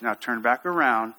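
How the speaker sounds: low, even instruction; calm firmness. Shown as a demonstration. Instructor redirecting a scared climber, calm and firm. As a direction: steer them back to the task calmly. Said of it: "with that tone of voice".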